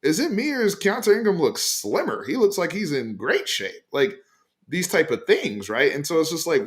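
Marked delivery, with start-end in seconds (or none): 0.0-3.8 hyped fan voice. Retold or imitated. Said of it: "people in the comments on my tweet were like".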